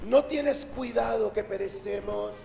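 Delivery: soft, polite formal reproach; hushed courteous wording; elegant, refined. Acted. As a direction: recite it delicately and politely. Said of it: "palabras lindas y elegantes".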